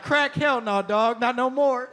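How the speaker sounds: hammed-up, rhythmic anti-drug slogan; hip-hop ad voice. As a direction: belt it out like a cheesy hip-hop commercial. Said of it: "they add hip hop".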